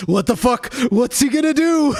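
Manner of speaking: baffled opponent. Retold or imitated. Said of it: "he's still thinking, like".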